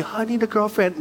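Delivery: mock lovesick plea. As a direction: pitch it up like a hammed-up lonely plea. Mocking a lesser kind of loneliness.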